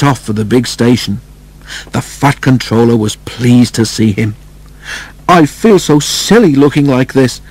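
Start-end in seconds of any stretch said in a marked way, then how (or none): 5.3-7.4 higher, whiny engine complaint; complaining. Acted. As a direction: moan about looking silly. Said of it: "complained Henry".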